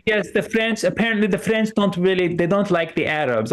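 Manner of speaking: voicing the locals. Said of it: "they're like".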